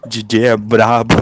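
loud Carioca hype; Rio accent. Retold or imitated. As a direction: shout it like a Rio MC. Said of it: "sotaque de carioca".

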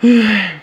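re-enacted calming breath; deep breath. Retelling nerves before approaching her, acted calming breath. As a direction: breathe out audibly to calm down. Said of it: "Comecei a inspirar, respirar".

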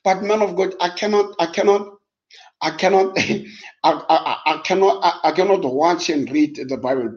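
a hint of a complaining listener; mock congregant voice. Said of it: "somebody says".

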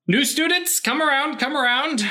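put-on high, loud German-accented call to students. Cartoon Einstein calling new students over, German accent. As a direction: summon the class like an eager German professor. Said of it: "a little bit of a German accent".

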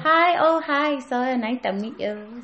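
lightly voiced, eager assistant with Hong Kong accent; nail assistant character. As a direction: greet the guests in accented character.

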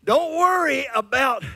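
high, loud reassuring voice of God; God tells his people not to worry, loudly reassuring. Retold or imitated. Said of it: "God is saying".

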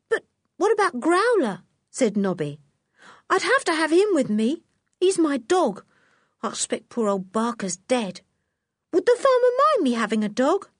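put-on high anxious circus boy voice; a boy fretting over his dog; worried Nobby.

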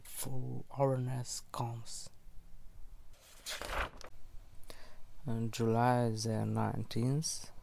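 lo-fi voice recorder sound; diary read into a dictaphone; dictaphone recording. Real, not acted. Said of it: "Recording on a voice recorder".

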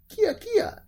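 very high, loud monkey screech; monkey cry. A narrator's reading. Monkey meeting Momotaro on the road, very high loud cry. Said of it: "said the monkey".

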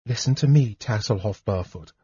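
calm him gently but firmly; quiet, steady appeal; softly. Acted. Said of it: "Lorana said softly".

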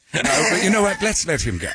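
mock English accent. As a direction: play along as an English noble. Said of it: "It is more fun to be English".

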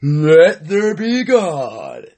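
slow, drawn-out decree; slow biblical proclamation. Acted. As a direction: proclaim it like scripture. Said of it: "Joe Rogan's podcast said".

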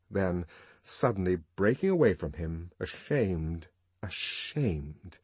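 usual speaking voice

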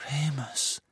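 soft, tearful naming; tearful plea. A narrator's reading. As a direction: call his name softly through tears. Hermine pleads softly, in tears. (leise, mit Tränen in der Stimme)

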